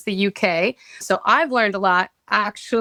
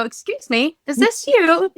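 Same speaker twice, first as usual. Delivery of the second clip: imitating British accent; 9 semitones higher than usual. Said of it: "you had the cutest accent".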